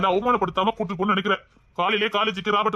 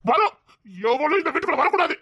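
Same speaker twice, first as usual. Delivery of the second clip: heated, higher-pitched ban; angry retort; 4 semitones higher than usual. Acted. Son forbids the girl the house, angry. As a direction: snap back in anger. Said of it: "உனக்கு என்ன கோவம் வருது".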